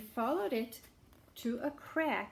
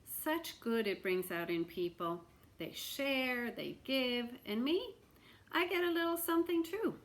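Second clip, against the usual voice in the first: lightly voiced sly beggar, rising with glee; a hint of a pleased old beggar; beggar's voice; 3 semitones higher than usual. Beggar musing to himself, mildly gleeful.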